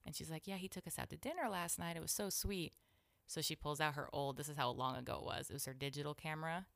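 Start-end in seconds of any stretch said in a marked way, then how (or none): 0.5-2.7 lightly voiced doting mother, a little higher; a hint of proud granny gushing; retold gushing over a beloved son; gushing grandmother. Retelling grandmother gushing about son.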